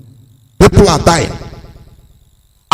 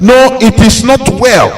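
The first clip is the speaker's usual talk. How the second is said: higher, firm no it is not well; honest refusal; 7 semitones higher than usual. Shown as a demonstration. Speaker shows what people should say instead. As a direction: say it plainly, no pretending. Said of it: "Instead of saying".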